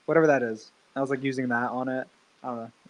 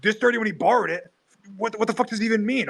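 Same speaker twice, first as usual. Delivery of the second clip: incredulous mock outrage; 8 semitones higher, faster than usual. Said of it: "And Sam was like".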